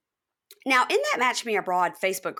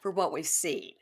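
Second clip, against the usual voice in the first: whisper; 3 semitones lower, 4 dB quieter than usual. Real, not acted. Quiet echo of cohost.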